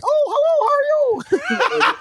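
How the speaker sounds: high, slow, laughing put-on kid voice; high mock greeting. Kid at Disneyland hamming up a foreign greeting, high and laughing. Mimicking a tourist kid accent.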